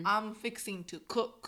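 slow Texan "I'm fixing to cook"; Southern drawl. Shown as a demonstration. Teaching a Texan phrase, slow Southern drawl. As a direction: drawl each word like a Texan. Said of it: "フィクシングって言うんだけど".

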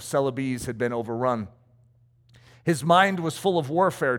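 measured, formal read-aloud storytelling; memoir narration. A narrator's reading. Preacher reads a missionary's memoir to listeners, earnest narration. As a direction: read it out in full, deliberate phrases.

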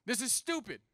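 high-pitched mock outrage; outraged outburst. Son bursting out at aunt and dad, outraged. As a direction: blurt it out in retold teenage anger. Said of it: "burst out in outrage".

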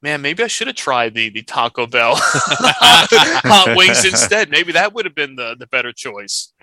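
laughing through the quote. Retold or imitated. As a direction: chuckle through the words. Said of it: "this one was just like".

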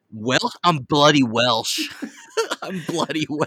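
mock Welsh accent. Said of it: "You would think some".

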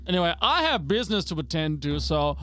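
lightly voiced old patriarch, dismissive; a hint of a stern old father; gruff father figure. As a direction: play the stern father sending the boy off. NPC father dismisses son.

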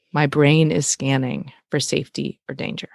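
measured, deliberate repeat; super slow. Shown as a demonstration. Host repeating brain fact for listeners, slow and deliberate. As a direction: let each word land slowly. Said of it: "I'm gonna say it twice".

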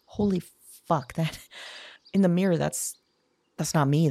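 blurting out in shock at the mirror; shocked disbelief. Acted. Shocked by her reflection.

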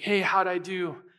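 lightly voiced child seeking dad's approval; bright-eyed, hopeful retold question; excited little boy. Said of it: "running to his dad in excitement".

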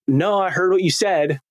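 retold defensive insistence; mildly testy, insisting you listened. Husband answers wife who says he wasn't listening, defensive. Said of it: "You could tell my tone already".

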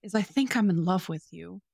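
a touch of tender earnest recitation; reciting love declaration. Retold or imitated. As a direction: read the confession as if meaning it. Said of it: "and I quote".

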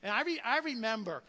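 ordinary delivery

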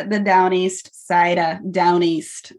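best attempt at a Boston accent on Down East; light Boston twang on the vowels; a mild, half-hearted Boston accent. Shown as a demonstration. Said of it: "That was my best Boston accent".

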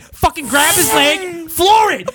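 high, drawn-out mock yell; slow, high-pitched hollered command; retold scream. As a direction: imitate a frantic passenger screaming orders. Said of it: "this chick next to him screams".

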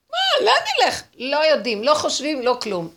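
high, loud acted outcry; panicked crying out. Israelites crying back at the sea, high loud protest. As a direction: cry out in high-pitched disbelief. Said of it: "צעקו".

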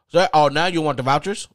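loud, high, goading question; mock indignation. Agent taunts caller about the vouchers, mock indignant. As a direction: throw it back loudly, mock outraged.

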